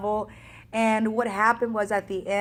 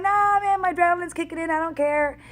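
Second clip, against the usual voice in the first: 1 excited dismissal; 9 semitones higher, 4 dB louder than usual. Retold or imitated. Brushing off the fall.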